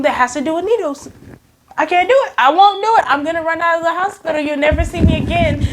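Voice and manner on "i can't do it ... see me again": higher, insistent refusal; acted-out panic. Patient threatening to flee the hospital, mock panicked refusal. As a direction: protest up high in mock panic.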